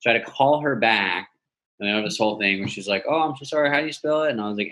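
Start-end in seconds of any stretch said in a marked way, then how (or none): 3.1-4.3 lightly voiced, higher-pitched apologetic lady; a hint of a kindly phone agent; sweet old Brooklyn lady. Insurance agent apologizing to caller, lightly imitated sweetness. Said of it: "this sweet old black lady".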